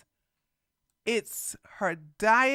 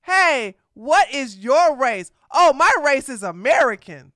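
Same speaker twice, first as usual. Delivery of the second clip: mock dumb exchange; 2 semitones higher, 6 dB louder than usual. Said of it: "That's like somebody saying".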